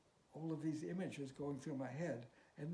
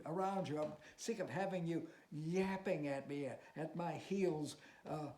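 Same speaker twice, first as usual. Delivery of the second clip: higher, louder bitter rant; angry outburst; 4 semitones higher, 4 dB louder than usual. Acted. Teacher lashing out at his pupil in fury. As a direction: spit out your contempt for her.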